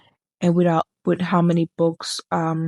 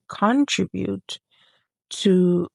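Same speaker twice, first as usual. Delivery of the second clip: halting stutter, word stuck; stumbling stuttering over the word; much slower than usual. Real, not acted. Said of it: "and I'm stuttering".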